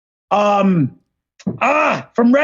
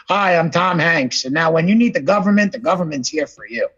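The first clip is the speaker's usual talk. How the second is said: lightly put-on government spokesman, lower at the end; a hint of an ad pitchman; Tom Hanks; 5 semitones lower than usual. Film star speaking for the government, lightly imitated. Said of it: "Tom Hanks talking for the government".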